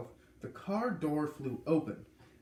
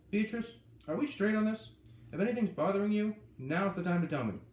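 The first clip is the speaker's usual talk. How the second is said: firm; 7 semitones higher, 4 dB louder than usual. A narrator's reading. Roy confronts Beatrice firmly.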